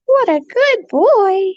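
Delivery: high, slow drawn-out cooing. Real, not acted. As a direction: stretch the praise out, cooing. Slower repeat of praise.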